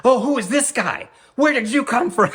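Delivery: high sarcastic mock outrage; mock indignant. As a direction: scoff at the intruder, half laughing. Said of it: "He was like".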